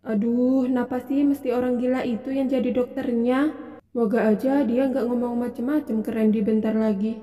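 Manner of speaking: soft, anxious muttering to herself; worried aside. Acted. Wife dreads what the doctor will tell Randy, worried aside.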